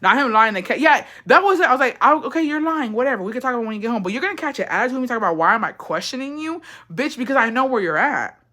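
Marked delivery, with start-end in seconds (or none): 2.0-8.4 higher-pitched, sassy telling-off; fed-up challenge, retold; retold confrontation. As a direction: act out calling out his lie. Acts out confronting him on phone.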